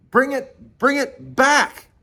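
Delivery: high, slow, emphatic order to a crewmate; retold exasperated urging, words spaced out; insistent command. Urging as boat goes straight.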